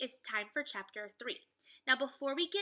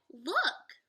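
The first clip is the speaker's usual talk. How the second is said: Annie calling out; 5 semitones higher, 6 dB louder than usual. Acted. Annie calls.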